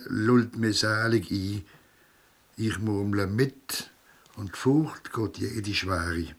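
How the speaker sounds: performed Basel dialect poem, spoken with swing; dialect verse recitation. Acted. Performer recites his Rhine poem to the crowd in measured verse. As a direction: recite the verses to the audience on stage.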